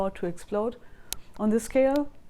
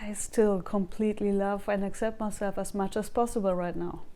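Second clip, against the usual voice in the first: tapping script. Acted. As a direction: say each line for viewers to echo back. Leads a tapping sequence.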